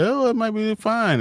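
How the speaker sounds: high, drawn-out mimicry of a wife; imitating wife. Man quoting his wife about a movie, high-pitched imitation. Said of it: "And my wife said".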